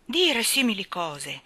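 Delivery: slow, hurt and frowning; offended exclamation. Acted. Gardener offended by Jane's words, sulking. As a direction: drag it out, wounded. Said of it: "esclamò Robertson A corrucciato".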